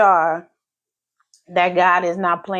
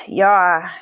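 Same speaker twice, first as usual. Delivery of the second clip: whisper; 3 dB louder than usual. Real, not acted. Whispered aside to viewers.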